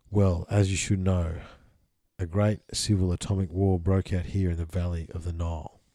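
measured, solemn scripture reading; steady solemn reading aloud; reading a channeled text. Acted. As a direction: intone it like an old sacred text.

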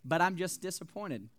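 fond opening, mildly let down at the end; mild mock disappointment. Fan to his losing team, mildly acted disappointment. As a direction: act a touch disappointed, easing down after the pause. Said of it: "This was how I felt about U G A".

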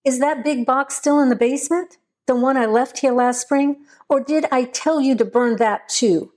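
understated angry call down the stairs; lightly voiced shout back over his shoulder; mild narrated yelling. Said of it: "yelling angrily back over his shoulder".

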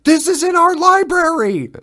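high, loud enraged cry; high furious outburst, imitated; enraged parent. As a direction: mimic a parent losing it over the book. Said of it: "beside himself in rage".

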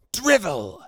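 high, harsh crow-like cry of "Drivel"; cawing. A narrator's reading. Ceramis scornfully cawing at Romular's speech. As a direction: caw it out like a crow. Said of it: "she cawed".

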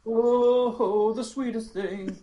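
high, swooning Southern belle; flattered Southern drawl; Southern lady voice. Acted. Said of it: "role play Carolyn".

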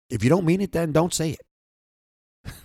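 loud, slow, hammering each word; passionate emphasis. Real, not acted. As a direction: drive it home, don't slowing right down. Preaching passionately to listeners.

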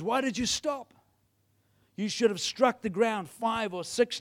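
angry prophet. Acted. Prophet scolding the king for stopping too soon, angry. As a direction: rebuke him with a touch of anger. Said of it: "the man of God was angry with him".

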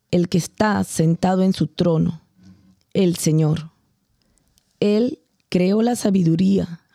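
measured, solemn liturgical reading; scripture reading. Acted. Reader proclaims Wisdom to the faithful, solemn reading. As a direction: read it out to the congregation with reverence.

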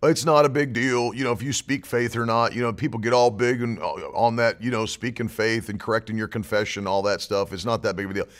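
low, soft, offhand mimicry of doubters; casual low mumble, mocking the unconcerned; mock dismissive believer. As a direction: imitate people shrugging it off, dropping pitch and volume. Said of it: "For all these people that think".

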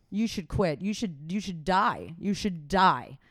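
slow, cold voice in her head; nagging inner critic. Retold or imitated. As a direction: hiss it like a cruel inner voice. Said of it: "you sound like my inner critic".

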